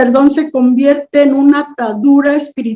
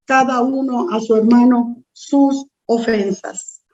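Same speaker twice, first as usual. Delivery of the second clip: steady, measured Bible reading voice; scripture reading; 2 semitones higher than usual. Acted. Pastor reading the parable of the two debtors to the congregation, measured reading voice. Pastor reads Mateo 18 aloud.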